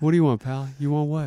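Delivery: eerie voice from the mist; ominous distant voice. Retold or imitated. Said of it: "like this ominous voice in the mist".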